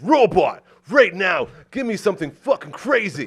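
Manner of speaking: barking orders, loud and high; yelling. Retold or imitated. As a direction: shout a command at a servant. Owner yelling at chained robot.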